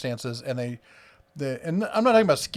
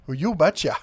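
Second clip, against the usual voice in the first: put-on North Dakota accent. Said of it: "for me not to be doing the".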